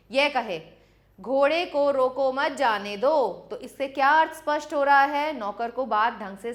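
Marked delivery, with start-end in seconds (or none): 1.2-3.5 "घोड़े को रोको मत जाने दो" run together in one breath; all words of "घोड़े को रोको मत जाने दो" joined, no pause anywhere. Shown as a demonstration. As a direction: say "घोड़े को रोको मत जाने दो" straight through without a break. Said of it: "बिना शब्द रुके".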